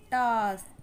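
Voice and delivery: "टास्क" with a long, falling aah; teacher's stretched "टास्क"; long A demo. Shown as a demonstration. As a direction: hold the vowel in "टास्क". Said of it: "बहुत ही long sound".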